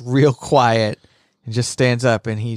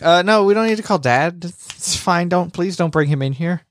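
higher, nervous pleading; mock scared; 4 semitones higher than usual. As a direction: imitate someone anxiously backpedalling. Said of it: "she gets real scared".

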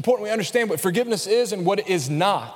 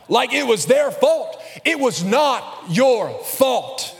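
preaching; 3 semitones higher than usual. Acted. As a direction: preach it with fire. Fiery sermon passage.

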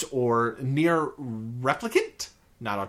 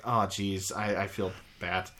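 guilty mumble; 7 semitones lower, 8 dB quieter than usual. Retold or imitated. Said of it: "and then you're like".

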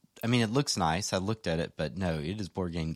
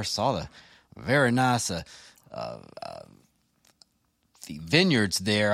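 put-on Texas accent. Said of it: "influencing my accent".

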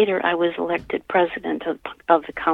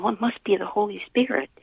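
hushed inner thought, barely voiced; awed whisper; 3 semitones higher than usual. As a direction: breathe it like a private realization. Inner thought, awe at warm touch.

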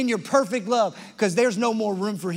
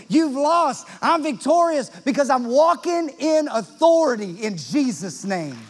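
defiant declaration; 4 semitones higher, 4 dB louder than usual. Shown as a demonstration. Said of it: "when you start to say".

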